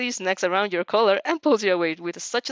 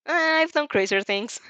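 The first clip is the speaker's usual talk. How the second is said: slow cocky quip; 7 semitones higher, 5 dB louder, slower than usual. Acted. Character jokes before shrug.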